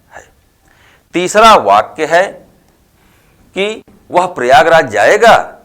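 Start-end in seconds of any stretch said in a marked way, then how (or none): 4.1-5.6 "वह प्रयागराज जाएगा" exclaimed, falling on "जाएगा"; mild exclamation of surprise. Shown as a demonstration. Teacher reading the example with an exclamation mark, mildly surprised. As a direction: demonstrate light astonishment in "वह प्रयागराज जाएगा". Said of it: "यह आश्चर्य का भाव व्यक्त कर रहा है".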